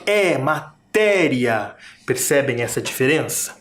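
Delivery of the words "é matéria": matéria slowly, with an open, stressed É; open acute é. Shown as a demonstration. Teacher contrasting it with the nasal sound, open stressed é in matéria. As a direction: draw out the open é in matéria, straight from the mouth. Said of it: "ele sai pela boca bem forte".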